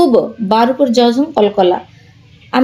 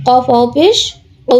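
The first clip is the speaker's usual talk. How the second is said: long, steady উ to finish; drawn-out vowel. Shown as a demonstration. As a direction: spell it, then stretch উ long. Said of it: "একালিপ টান দিতে হবে".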